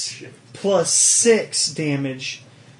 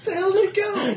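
imitating a character; faster than usual. Acting movie character.

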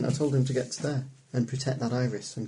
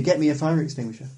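calling from far away; 4 semitones higher, 4 dB louder than usual. Acted. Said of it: "I'm shouting to you".

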